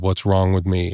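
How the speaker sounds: plain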